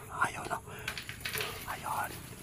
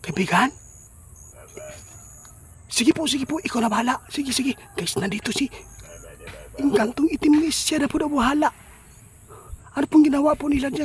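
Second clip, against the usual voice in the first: excited shouting; 12 semitones higher, 14 dB louder than usual. Real, not acted. Excited talk to game character.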